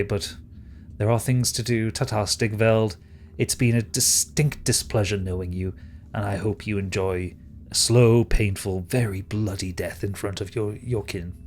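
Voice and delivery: lightly voiced courteous menace; politely cruel villain. Villain bids Stigveld farewell, mildly menacing and courteous. Villain takes his leave.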